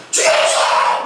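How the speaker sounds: imitating a raw, drawn-out scream; mock screaming. Jonah screaming at God over the lost vine, mock screaming. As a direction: act out yelling in a fit. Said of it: "하나님 보고 소리를 지".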